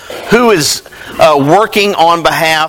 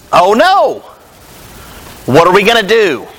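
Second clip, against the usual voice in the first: a touch of dismay, raised pitch; understated panic; mild mock alarm; 2 semitones higher than usual. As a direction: voice a worried servant, lightly acted. Retells the servant's alarmed exclamation.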